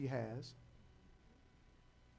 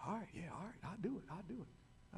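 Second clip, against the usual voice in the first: son agreeing; 11 dB quieter than usual. Retold or imitated. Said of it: "son agreeing".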